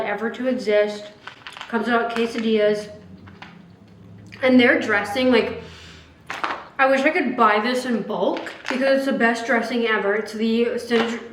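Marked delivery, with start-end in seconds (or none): 4.4-11.2 breathless from climbing stairs; winded, catching breath between words. Real, not acted. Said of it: "I'm out of breath from the steps".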